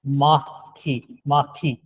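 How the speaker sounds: माखी said slowly, each sound drawn out; Korean pronunciation demo. Shown as a demonstration. Teacher to class, slowly modelling the Korean word. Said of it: "क्या इसका sound हो गया".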